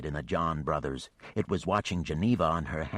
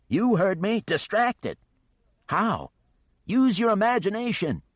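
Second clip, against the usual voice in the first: much higher, louder commands; urgent orders; 14 semitones higher, 6 dB louder than usual. Acted. Geneva urgently orders Mischief to distract the dragon. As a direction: bark orders across the fight.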